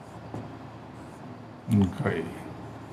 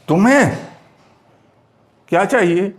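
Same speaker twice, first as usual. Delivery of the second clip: तुम्हें pitched up and set apart by a pause; stress on तुम्हें; 3 semitones higher, faster than usual. Shown as a demonstration. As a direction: lean on तुम्हें, pause, then क्या चाहिए. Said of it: "अगर हम इस पे जोर देना चाहते हैं".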